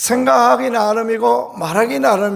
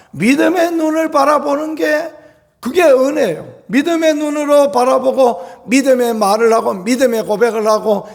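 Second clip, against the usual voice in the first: fervent preaching; 6 semitones higher than usual. Acted. Preaching at full force.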